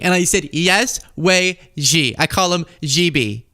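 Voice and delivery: high-pitched, giddy parody storyteller; mock Trump retelling. Host parodies Trump retelling his chat with Xi, high and giddy. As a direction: ham it up like a bragging gossip.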